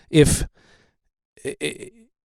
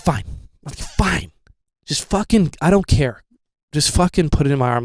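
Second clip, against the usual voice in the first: fed-up giving in; 3 semitones higher than usual. Retold or imitated. Giving in, exasperated.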